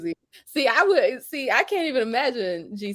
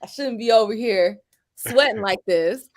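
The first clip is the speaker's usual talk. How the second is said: laughing. Retold or imitated. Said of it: "'cause I was like".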